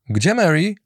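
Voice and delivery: a touch of a cheerful lad; Andy's voice. A narrator's reading. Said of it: "zapytał Andy".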